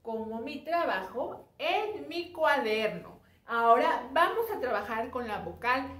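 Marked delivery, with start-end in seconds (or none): none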